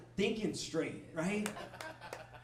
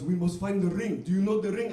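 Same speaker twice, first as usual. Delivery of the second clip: put-on Arabic accent; 2 semitones higher, 6 dB louder, faster than usual. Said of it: "all my accents that I do in comedy are Arabic people".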